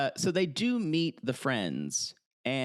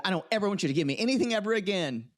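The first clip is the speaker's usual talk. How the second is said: higher-pitched, rapid-fire mock indignation; quick imitated huff; retold angry outburst; 6 semitones higher, much faster than usual. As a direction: rush it out like her fed-up retort. Quoting her angry outburst in retelling.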